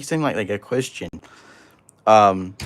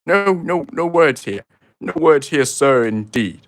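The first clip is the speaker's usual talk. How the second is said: pompous creator; 4 semitones higher than usual. Acted. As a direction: play the arrogant self-proclaimed creator, lightly hammed. Mock-outraged reply to viewer.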